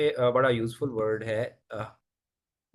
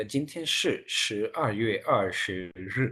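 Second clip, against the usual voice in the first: slow, each syllable drawn out; slow pronunciation model; much slower than usual. Shown as a demonstration. Teacher has class repeat the date, slow pronunciation model. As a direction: say it slowly for students to copy. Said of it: "pronounce कीजिएगा".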